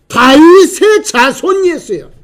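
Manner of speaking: high, slow, loud cry; shouted call. Retold or imitated. Blind man hailing Jesus as Messiah, shouted call. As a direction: shout it out, stretching each word. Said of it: "소리 지른 겁니다".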